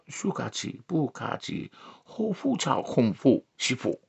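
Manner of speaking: soft, slow fake Asian syllables; mock Asian-language gibberish. Comic pretends to speak Asian languages, soft mock gibberish. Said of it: "Yeah, I speak it".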